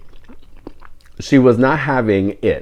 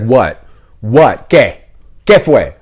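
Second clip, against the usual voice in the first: short retorts with a pause between each; imitated sassy challenge; slower than usual. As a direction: imitate a sassy old lady talking back. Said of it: "doñita has sass".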